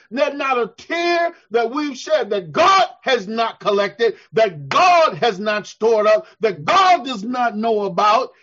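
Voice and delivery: loud, ringing preacher's build; rising sermon call, voice lifted; preaching loud. Real, not acted. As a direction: hammer each line home to the congregation.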